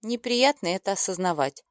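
plain reading voice

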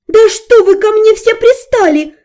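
high, loud exasperated shout; explode, out of patience; yelling. A narrator's reading. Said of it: "заорала я".

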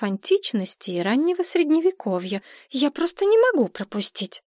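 high, starry-eyed gushing; dreamy, gushing. Acted. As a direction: swoon over the lecture. Мария мечтает о лекции. (мечтательно и восторженно)

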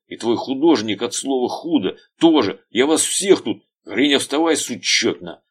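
high, loud hate-filled rant; hateful tirade. A narrator's reading. Veryovkin rants at the detective, full of hate. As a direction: spit every word with force. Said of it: "с особенной силой начал выталкивать ... ненависти слова".

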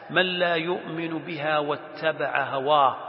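slow, even verse reading; Quran recitation. Acted. Teacher finishing the warning verse, reciting slowly. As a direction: recite on a sustained tone.

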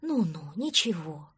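put-on calm the crying child; soothing. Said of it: "приговаривал он".

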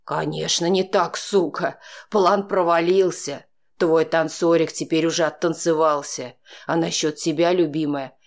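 caress the words while threatening her; almost tender menace. A narrator's reading. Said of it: "Почти ласково сообщил он". (низко, почти ласково, с угрозой)

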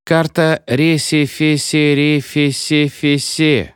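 frightened, stuttering teacher; trembling stammer. A narrator's reading. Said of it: "прыгающими губами".

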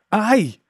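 high yelp of pain; sharp cry of pain. A narrator's reading. Captain yelping when the stick strikes his hand. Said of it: "скрикнув Джезаль".

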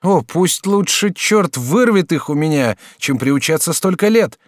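put-on young student crying out. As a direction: exclaim in horror. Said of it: "закричал Жак".

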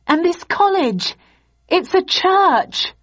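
high desperate shout. Acted. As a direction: cry out in panic. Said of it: "I shouted".

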